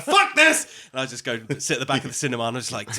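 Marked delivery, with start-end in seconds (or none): 0.0-0.7 loud high snap of frustration; exasperated outburst. Retold or imitated. Fed-up moviegoer giving up on his seat, loud outburst. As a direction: blurt it out, fed up. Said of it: "So I'm like".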